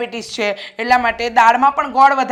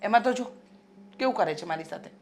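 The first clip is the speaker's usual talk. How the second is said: soft, whimpering victim act; quiet put-on self-pity; feigned hurt; 4 dB quieter than usual. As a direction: play the wounded mother for her son. Mother plays victim to her son.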